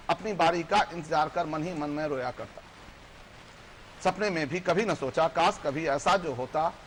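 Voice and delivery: measured verse recital with lifted line ends; poem recitation. Acted. Poet recites a labourer's small wish, declaimed in verse. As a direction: recite it rhythmically to an audience.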